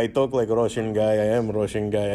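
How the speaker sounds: mock Russian, hardened final consonants; Russian accent. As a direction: play a stereotyped Russian. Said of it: "You got the".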